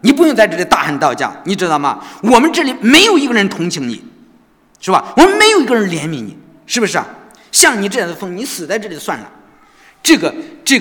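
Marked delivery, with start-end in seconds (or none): 0.0-9.3 louder, higher contempt; guard's parting taunt, loud; scornful guard. Retold or imitated. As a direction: spit the insult at the madman. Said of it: "最后的一个警察离开的时候".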